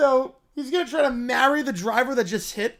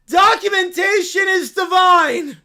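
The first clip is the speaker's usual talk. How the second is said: a cub thrilled by the news; excited little bear; 8 semitones higher, 9 dB louder than usual. Acted. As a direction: squeal it like an overjoyed cub. Bear shouting.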